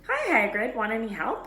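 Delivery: put-on eager young helper; Ron's voice. A narrator's reading. Ron voiced in the story.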